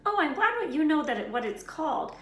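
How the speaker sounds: loud, high sarcastic snarl. A narrator's reading. Ron snarls at Hermione, loud sarcastic snarl. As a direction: bite back sarcastically. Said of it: "snarled Ron".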